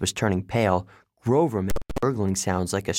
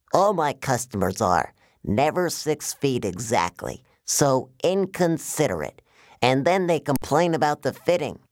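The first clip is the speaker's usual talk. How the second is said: higher, aggrieved salesman giant; giant waterbed salesman villain; 5 semitones higher than usual. Acted. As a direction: boast like a salesman nobody appreciates.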